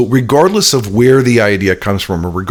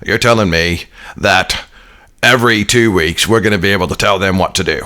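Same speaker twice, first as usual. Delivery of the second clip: bad Australian accent; 2 semitones lower than usual. Vice president questioning what he's been told, bad Australian accent. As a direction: imitate an Australian, not very well. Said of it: "I do a terrible Australian accent".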